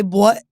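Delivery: "but" imitated as a rounded "bwot"; British-style BUT. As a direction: say "but" like "bwot", mimicking a Briton. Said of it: "he does say".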